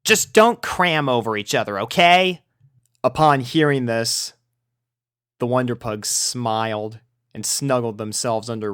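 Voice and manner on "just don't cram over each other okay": louder, higher on the last word; grudging warning. A narrator's reading. Rainbow warning the puppies not to crowd her, grudging. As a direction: set a weary rule.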